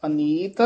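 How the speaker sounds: ਅਨੀਤ set apart, rising, then a short stop; brief halt. Shown as a demonstration. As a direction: hang briefly after ਅਨੀਤ. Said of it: "ਇੱਥੇ ਯਮਕ ਲਾ ਦੇਣੀ ਹੈ".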